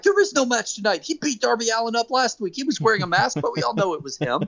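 imitating commentators. Podcaster mimics commentators insisting there is no match, high and indignant. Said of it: "And they're like".

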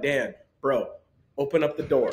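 easy, casual tone with a laugh; totally unbothered ask; relaxed bro request; calm. Retold or imitated. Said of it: "he literally was like".

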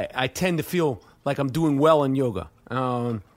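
talking between sips; sipping through a straw; while sipping a drink. Real, not acted. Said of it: "excuse me, I'm sipping a little".

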